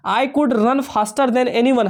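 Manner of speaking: each word slow and spaced; slow dictation read. Shown as a demonstration. Teacher to students, reading the example slowly.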